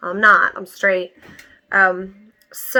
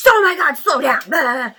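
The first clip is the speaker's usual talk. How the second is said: mocking mom's yell; 6 semitones higher, 6 dB louder than usual.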